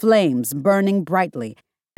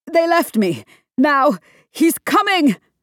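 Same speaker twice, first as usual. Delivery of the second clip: high-pitched, nearly hysterical voice; 8 semitones higher than usual. A man left behind answers Iron Man, backing away, nearly hysterical. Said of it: "nearly hysterical".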